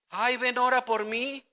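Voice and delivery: high, slow, pleading put-on voice; mock a whining believer begging for prayer; whiny plea. Preacher mimics a believer begging for prayer, high and whiny.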